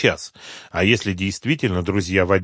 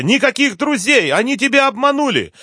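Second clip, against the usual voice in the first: a much higher, louder yell; 6 dB louder than usual. A narrator's reading. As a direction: scream no in panic. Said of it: "заорала Света".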